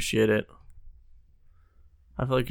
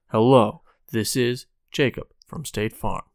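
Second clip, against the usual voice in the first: mock scam caller; 6 dB louder than usual. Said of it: "Dramatic reenactment".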